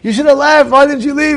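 loud, high mock telling-off; retold scolding. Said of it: "I'm shambling my wife".

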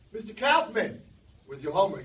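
loud, sharp demand from the teacher; stern teacher. Retold or imitated. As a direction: bark it like a strict teacher. Teacher voiced stern in story.

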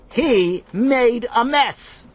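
put-on high, slow, whiny kid blame; whiny accusing. A narrator's reading. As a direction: point the finger and whine. Both boys accuse in unison.

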